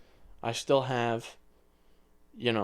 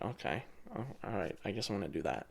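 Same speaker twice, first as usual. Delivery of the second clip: softer, lower, resigned retelling of agreeing; retold reluctant agreement; 3 semitones lower, 10 dB quieter, faster than usual. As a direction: quietly give in, low-key. Reluctantly agrees to dad's request.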